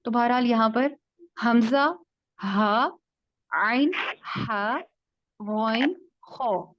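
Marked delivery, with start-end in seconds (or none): 1.5-6.7 حمزہ, ہا, عین, ہا, غین, خو each isolated and articulated; teacher reciting the letters for memorizing; listing throat letters. Shown as a demonstration. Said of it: "چھ حروف آپ نے اچھے سے ذہن میں رکھ لینے ہیں".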